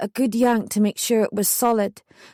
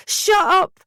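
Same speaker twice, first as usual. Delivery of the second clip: yelling; 6 semitones higher than usual. A narrator's reading. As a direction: spit the hatred at them at full voice. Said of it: "I yelled back".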